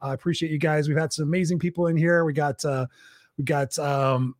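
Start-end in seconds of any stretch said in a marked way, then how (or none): 2.2-4.3 hoarse, worn-out voice; losing voice. Real, not acted. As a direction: voice going hoarse and tired. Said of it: "sorry, I'm losing my voice".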